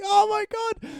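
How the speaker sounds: very high squealed "oh my God"; hammed-up falsetto scream; mock girlish shriek. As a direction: shriek like startled girls. Retold group of girls shrieking.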